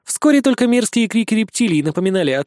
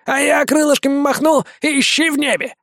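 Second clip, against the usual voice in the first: higher, boastful little bat; vampire bat voice; 8 semitones higher than usual. A narrator's reading. Vampire boasts he'll fly away, high and cheeky. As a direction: brag like a flighty bat.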